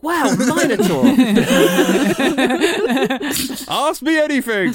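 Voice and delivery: high, loud gushing fan; mock starstruck fan. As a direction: gush like an overexcited fan. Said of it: "they're just like".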